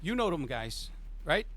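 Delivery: high, fumbling for a name; blustering boss who can't recall a rival; agitated mob boss. Acted. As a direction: boss venting at the player. GM voices Sal.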